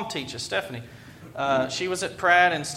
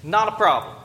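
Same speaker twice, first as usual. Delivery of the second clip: car ad pitch; 2 semitones higher than usual. Retold or imitated. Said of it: "they have this commercial that says".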